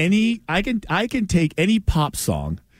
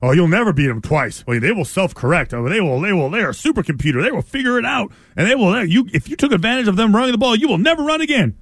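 hammed-up panicky fan voice; mock doom-saying fan; faster than usual. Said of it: "Doesn't it feel like, usually it's like".

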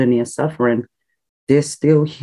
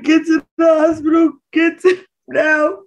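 urgent retold shout; 13 semitones higher, 3 dB louder than usual. Mother urging her son to hospital, urgent shout. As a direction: push him to get to the hospital, now.

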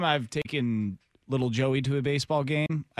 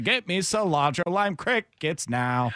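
slow, showy ballpark announcer voice; old-timey baseball announcer; 4 semitones higher, slower than usual. Pretend. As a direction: call it like an old radio man. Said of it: "old-timey baseball announcer".

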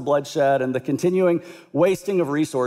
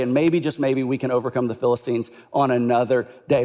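lower, sly scheming mutter; scheming king; 3 semitones lower than usual. Retold or imitated. Saul plotting to sacrifice David, low and sly.

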